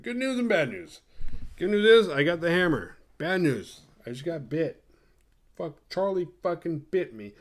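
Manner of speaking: high, put-on distressed voice; retold high-pitched fretting; mock panicky report. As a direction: break the news in a high, hapless voice. Retold anxious announcement of bad news.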